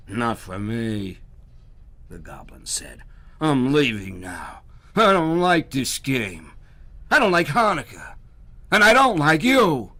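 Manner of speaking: stomp off shouting; angry goblin. Acted. Goblin storms off from Herschel, angry and loud.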